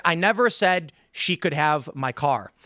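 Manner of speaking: "never" weighted, slow deliberate line; shifting emphasis demo. Shown as a demonstration. Showing how emphasis changes meaning, slow stress on "never". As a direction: lean on "never", unhurried. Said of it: "if you add emphasis on any one".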